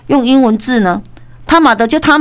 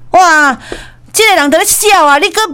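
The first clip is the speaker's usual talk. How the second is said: 1 surprised exclaim; 7 semitones higher than usual. Real, not acted. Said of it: "exclaiming at the scene".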